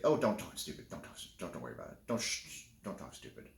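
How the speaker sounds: fading to a dismissive hush; hushing mom. Retold or imitated. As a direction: brush it off like a mom shushing her kid. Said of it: "she's like".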